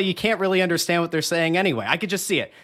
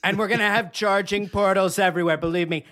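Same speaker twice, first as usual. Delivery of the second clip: lightly done Trump voice, boastful and repetitive; a hint of Trump hyping his own product; Trump impression. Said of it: "that was a very impressive Trump".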